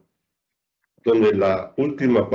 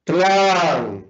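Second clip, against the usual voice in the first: "Tlán" isolated, higher and drawn out; stressed syllable alone; 4 semitones higher than usual. Shown as a demonstration. Teacher answers the quiz, "Tlán" held long and stressed. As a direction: sing out "Tlán" as the strong syllable. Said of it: "¿dónde está la sílaba tónica?".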